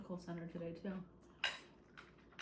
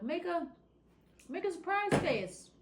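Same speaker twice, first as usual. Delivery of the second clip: photographer prompting; 10 semitones higher, 4 dB louder, slower than usual. Retold or imitated. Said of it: "they'd be like".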